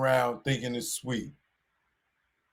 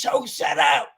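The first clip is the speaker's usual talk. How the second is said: whispered shush; 7 semitones higher than usual. Retold or imitated.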